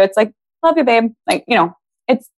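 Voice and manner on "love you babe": offhand, routine endearment, slightly raised pitch; light, matter-of-fact sweet nothing; casual everyday affection. Acted. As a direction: toss it off like a daily habit. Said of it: "it's normal, right? It's neutral".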